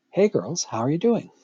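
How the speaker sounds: friendly, rising polite hello to a group; polite greeting. Pretend. Someone greeting a group of girls politely, bright and courteous. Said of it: "asking politely".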